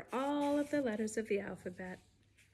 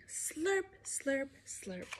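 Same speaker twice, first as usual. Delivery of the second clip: slurping cat; 3 semitones higher, 6 dB quieter, slower than usual. Pretend. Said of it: "like a big cat drinking".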